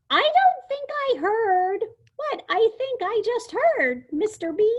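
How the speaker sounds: high squeaky disbelief; squeaky amazed voice. Acted. Lulu, stunned by the dinosaur, in a squeaky amazed voice. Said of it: "in a squeaky, amazed kind of voice".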